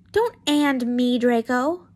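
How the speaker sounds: loud, slow scolding. Acted. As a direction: tell him off firmly. Pansy scolding.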